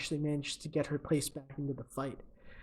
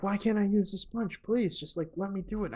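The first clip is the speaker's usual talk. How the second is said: higher, lightly acted plea; mock pleading; 4 semitones higher than usual. Losing fighter to her coach, mock pleading. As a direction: imitate begging a coach for permission.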